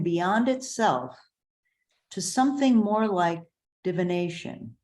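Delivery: formal read-aloud with deliberate pauses; measured review reading. Acted.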